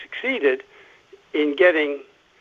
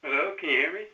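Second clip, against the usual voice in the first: phone held away; 7 dB quieter, much faster than usual. Real, not acted. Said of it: "you need to speak into the phone".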